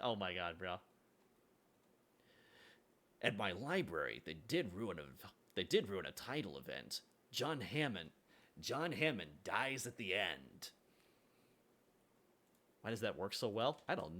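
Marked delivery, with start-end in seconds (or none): 3.2-10.7 Morty line, quieter take. Retold or imitated. Rereading the Morty line, lower and softer deadpan. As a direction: let the spoiler land gently. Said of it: "that's a Morty line".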